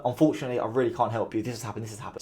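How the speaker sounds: quiet, regretful and genuine. Shown as a demonstration. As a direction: let it fall gently like a real apology. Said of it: "You're actually doing the".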